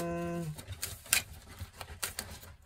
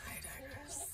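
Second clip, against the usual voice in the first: "I digress" pitched much higher, rising at the end, very soft; high sing-song; 7 semitones higher, 19 dB quieter than usual. Pretend. Repeating the aside to herself, high sing-song. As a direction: float "I digress" up high and lilting. Second take of the same aside.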